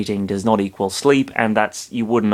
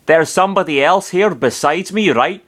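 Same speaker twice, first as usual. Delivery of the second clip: put-on Transylvanian accent; 5 semitones higher than usual. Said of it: "kind of like Transylvanian".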